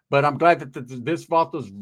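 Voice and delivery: stumbling over the opening sound; accidental stammer. Real, not acted. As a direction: catch on the word and restart. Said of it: "I started to talk like him".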